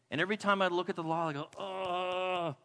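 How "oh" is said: long, drawn-out groan; exasperated groan. Acted. Preacher looks at the law and groans, exasperated. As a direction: groan in acted self-disgust.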